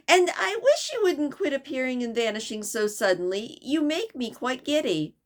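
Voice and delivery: put-on a flustered girl scolding the cat; lightly voiced exasperated girl; Alice's voice.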